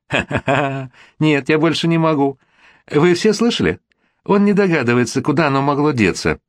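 high-pitched hysterical mockery; acted hysterics, pitched well up; hysterical laughter. A narrator's reading. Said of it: "Люда истерически захохотала". (истерический хохот, высоким голосом)

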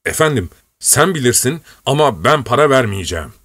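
put-on a flustered old retainer begging his young master; old servant protesting.

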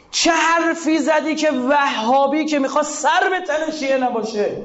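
high, impassioned pulpit voice, slowing on the key lines; fiery preaching. Acted. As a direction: preach it with rising force to the congregation. Preacher raises his voice. (منبری پرشور و با صدای بالا)

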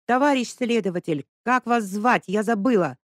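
Lesya, running to the investigator, shouting. A narrator's reading. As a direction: yell it across the tape. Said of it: "закричав".

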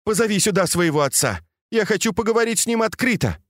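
fast, high, indignant demand; angry demand. A narrator's reading. Furious lady demands the young man fetch his father, fast and high. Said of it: "крикнула Дзяжуну".

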